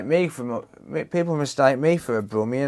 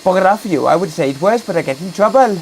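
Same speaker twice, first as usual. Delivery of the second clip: loud, higher mock Black Country grumble; Black Country accent; 6 semitones higher, 8 dB louder, faster than usual. Streamer playing a grumpy local telling someone off, in a Black Country accent. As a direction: snap at them like a grumpy local. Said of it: "stop doing accents".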